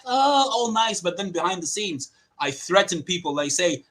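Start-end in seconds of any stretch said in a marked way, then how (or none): 0.0-1.0 higher, put-on niceness; mock two-faced politeness; fake nice. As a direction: imitate someone acting sweet. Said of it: "I don't act".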